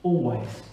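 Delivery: "always" set apart with firm weight; stress on always. Shown as a demonstration. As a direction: say "always" alone, emphatic and falling. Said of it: "with the emphasis on that word".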